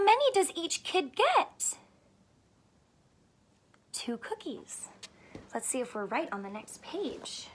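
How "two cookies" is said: a secret whisper, soft and low; whispered answer. Acted. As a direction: let them in on the answer in a whisper.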